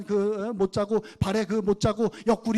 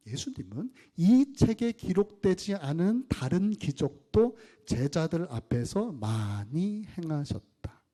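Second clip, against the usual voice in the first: slow scripture reading; slower than usual. Acted. Pastor reading the Bible to the congregation, slow scripture reading. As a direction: read slowly and deliberately. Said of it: "현대어 성경으로 읽어드릴게요".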